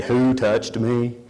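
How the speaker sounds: slow, mock-incredulous question; sarcastic echo. Disciples mocking Jesus's question, slow and sarcastic. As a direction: drawl it back as the disciples. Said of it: "You see the crowd pressing in".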